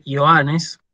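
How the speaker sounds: "Ioannes" said slowly as io-A-nes; Greek pronunciation. Shown as a demonstration. Teacher shows Juan in Greek, "Ioannes", stressed io-A-nes. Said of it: "como se dice Juan en griego".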